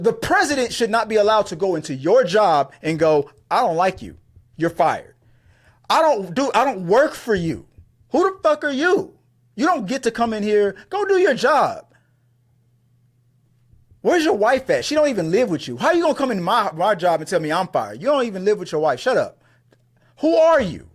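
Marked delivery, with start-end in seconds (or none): 3.5-11.9 high, indignant mock rant, rising to a yell; imitated angry president. Mocking the president firing a talk host, high indignant rant. 14.0-20.9 indignant retort. Acted. Answering the president who fired him, heated high yell. Speaker yells back at president.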